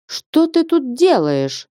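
high, slow startled shout; shouted challenge. Acted. Woken corridor man shouts at a stranger, high and slow. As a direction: yell at the stranger stepping over you. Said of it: "закричал".

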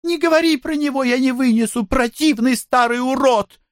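put-on very high, fast girlish plea; pleading in disgust. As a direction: beg her friend, squealing with disgust. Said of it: "снова взмолилась". (высоко и быстро, умоляюще)

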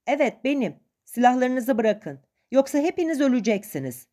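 acted urgent shouting; shouted warning. A narrator's reading. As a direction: call over to your comrades, warning them. Captive shouts warning to comrades.

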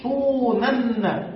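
صونن drawn out slowly, the doubled nun held; very slow model. Shown as a demonstration. Teacher to students modelling the emphatic form slowly. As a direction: stretch صونن for the class to copy. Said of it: "وبالتأكيد".

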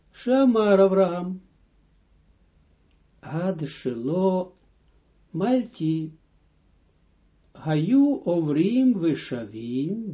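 slow, drawn-out Hebrew reading; measured text recitation. Acted. Teacher reading a Midrash text to students, slow recitation. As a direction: recite with long, stretched syllables.

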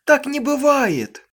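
high, slow, loud wail of disbelief; desperate hysterical denial; hysterical cry. A narrator's reading. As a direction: drag it out in horror. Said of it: "истерически закричала она наконец".

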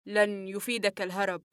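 doctor calmly stops the fleeing patient. Acted. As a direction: say it calmly, no hurry. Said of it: "وعاجلته قائلًا في هدوء".

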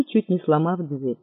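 plain reading voice

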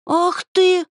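high, loud, indignant outburst; outraged cry. A narrator's reading. Dryad shrieks at the half-gnome who insulted her, outraged. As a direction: flare up in sudden outrage. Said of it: "возмутилась Дриада".

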